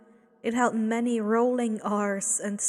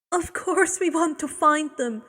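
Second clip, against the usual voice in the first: raised, higher anguished cry; cried out; 5 semitones higher, 4 dB louder than usual. Acted. Woman cries out to Abel, raised. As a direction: cry out in protest. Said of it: "the woman cried".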